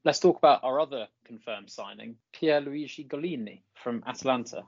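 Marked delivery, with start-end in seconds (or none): 2.3-4.6 put-on rolling the Italian name with an Italian accent. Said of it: "in a suitably Italian accent".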